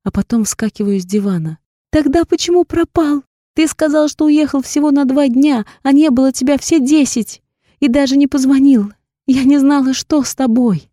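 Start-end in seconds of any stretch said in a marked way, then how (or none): 1.9-10.9 tearful accusation. A narrator's reading. Heroine accuses him tearfully.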